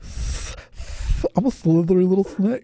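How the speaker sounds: high hissing meme snake. Retold or imitated. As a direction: hiss it out, sneaky and slithery. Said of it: "It's a meme".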